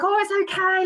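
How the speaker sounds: lifted, comforting quote; retold reassurance. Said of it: "And I was like".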